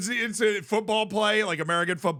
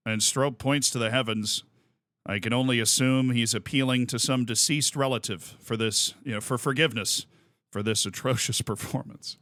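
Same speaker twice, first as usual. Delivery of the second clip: low, dry, measured announcer; Bob Costas voice; 6 semitones lower than usual. Retold or imitated. Retelling Costas mocking a pitcher, low solemn announcer. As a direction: deliver the insult with smooth gravity. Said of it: "He's like".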